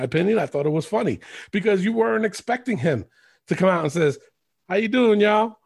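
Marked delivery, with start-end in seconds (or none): 4.7-5.6 imitated Southern twang; mock Southern wrestler introduction; Jimmy Wang Yang. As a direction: do a light Southern twang greeting. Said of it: "talk with a Southern twang".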